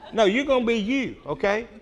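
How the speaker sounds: a chuckle on no; laughing. Real, not acted. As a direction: laugh it off warmly. Reassuring the congregation.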